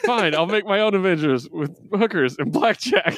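a hint of cartoon voice, amused; Futurama parody. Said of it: "make a Futurama reference".

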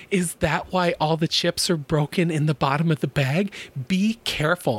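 imitated scolder articulating each word; lightly mock someone's fussy, over-careful diction; mock reproach with crisp enunciation; over-enunciating. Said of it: "over enunciating everything".

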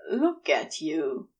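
low and slow, an accusation laced with desire; accusing yet desiring. A narrator's reading. Crowley gazing at Aziraphale eating, low accusing adoration. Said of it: "sound like an accusation peppered with hints of desire".

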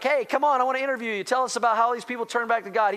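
lightly voiced eager talk-show host; Jimmy Fallon. Preacher imagining a TV host inviting Jonah on, lightly playful. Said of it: "Jimmy Fallon would be like".

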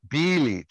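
BILIC stressed on its first syllable; accented first syllable. Retold or imitated. Host repeating how the player says his name, accented Bilic. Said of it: "like, like, with the accent".

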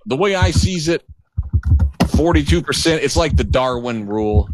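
lightly mocked Trump-fan doctor. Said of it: "he's like".

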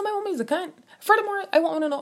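high and loud, worked up; heated outburst. Real, not acted. Ranting to viewers about the roommate, a loud high outburst. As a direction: let the anger burst out.

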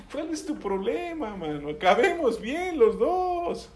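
high-pitched retold challenge; retold confrontation. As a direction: re-enact challenging another driver. Retelling his parking confrontation.

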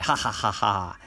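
sly gloating laugh; laugh out loud. Acted. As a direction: cackle out loud at the trick. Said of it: "out loud this time".

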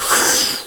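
breathy rocket hiss; whooshing noise made with breath; imitated rocket whoosh. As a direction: blow air like an incoming rocket. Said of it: "When you hear that".

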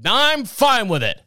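high, careless brush-off; dismissive husband. Retold or imitated. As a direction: toss it off without turning round. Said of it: "He's like".

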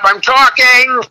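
high, loud, drawn-out mom yell; mom's shout. Retold or imitated. Comic announces memoir title to host, mom's shout. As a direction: belt it out high and slow like an exasperated mom.

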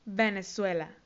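"Venezuela" said the English way, in careful syllables; English pronunciation. Shown as a demonstration. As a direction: model "Venezuela" for learners, falling. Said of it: "se dice Venezuela". ("Venezuela" pronunciado en inglés, con cuidado)

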